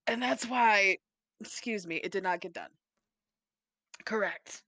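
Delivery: raspy, holding in a burp; smoker's rasp from a held burp; holding back a burp. Real, not acted. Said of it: "why do I sound like a smoker when I'm trying to not burp loud".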